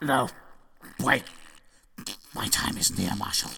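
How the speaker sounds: very soft, faint last words; weak dying voice. Acted. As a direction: fade out like a dying king.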